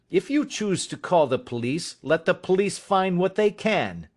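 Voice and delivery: passionate defiance. Acted. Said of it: "with a passion".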